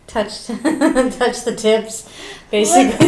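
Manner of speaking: drawn out with giggles; slow laughing. Real, not acted. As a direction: stretch it out, laughing. Slowed, laughing description.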